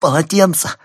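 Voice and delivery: high, loud sobbing outcry; sobbing cry. A narrator's reading. Wife in labour frets over the towels, sobbing loudly. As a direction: wail it through tears. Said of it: "всхлипнула она".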